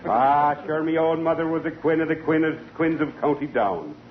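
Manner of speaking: stage Irish lilt, sentimental about mother; corny Irish brogue reminiscing; Irish tenor brogue. Acted. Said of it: "am an Irish tenor".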